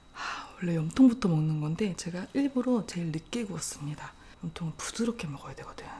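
soft whispered tips; ASMR whisper. Acted. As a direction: whisper close to the mic. Whispered explanation while eating.

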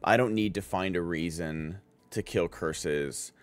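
low, soft and icy, retold with no emotion; cold, quiet resolve. Yuji calmly tells Mahito he'll just kill him, in a cold, quiet voice. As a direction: hold it back and say it quietly like a final verdict. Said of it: "it's just the coldest".

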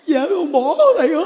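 high, loud comic wail of a dumped husband; hammed-up tearful whine; mock crying. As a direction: imitate a man blubbering his complaint. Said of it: "tự nhiên khóc kỳ cục ấy".

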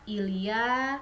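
slow French demo; very slow model. Shown as a demonstration. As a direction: drag the sentence very slowly. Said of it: "Contoh kalimatnya".

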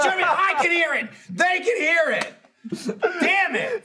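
high, half-laughing exasperation; exasperated scolding. Retold or imitated. Telling Jeremy the mics hear it, exasperated. Retold scolding of noisy co-host.

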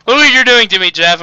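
spraying spit on every word; spitting while talking. Real, not acted. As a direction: talk so hard you spit. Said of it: "I am now spitting on everything".

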